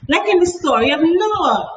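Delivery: put-on high, loud eager child voice; excited. A narrator's reading. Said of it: "Rosie interrupted excitedly".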